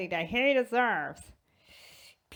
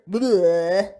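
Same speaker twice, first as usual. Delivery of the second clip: loud blubbering noise of disgust; disgusted bleh; 7 dB louder than usual. Acted. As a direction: stick the tongue out in sound. Disgust at the Squidward lookalike.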